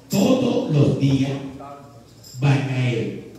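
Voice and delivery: todos los días spaced out, loud and firm; slow firm command. Acted. God commands the people about the manna, firm and slow. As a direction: lay down the rule word by word.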